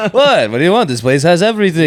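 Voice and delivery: lightly voiced old Jewish man; old Jewish guy voice. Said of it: "doing the old Jewish guy voice".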